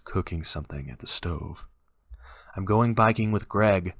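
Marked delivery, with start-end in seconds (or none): 2.6-4.0 calling out. Acted. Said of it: "I called".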